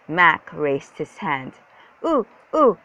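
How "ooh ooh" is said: high, loud "ooh, ooh"; high urgent oohs; eager grunts. A narrator's reading. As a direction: grunt like a kid begging to be called on. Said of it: "he grunted".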